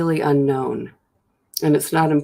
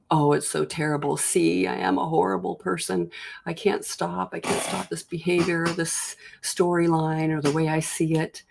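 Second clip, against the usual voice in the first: lightly acted self-reproach, pitched up and held there; churned-up self-blame; 3 semitones higher, 4 dB quieter than usual. Speaker imitating their churning thoughts about relapse, lightly self-blaming. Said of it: "all the thinking gets churned up".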